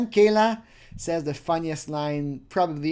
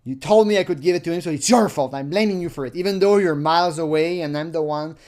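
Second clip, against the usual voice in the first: serious reading; 5 dB louder than usual. Shown as a demonstration. Reading the pervert's chat line seriously, firm and fast. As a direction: read it straight and firm, a bit fast. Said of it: "the serious line here".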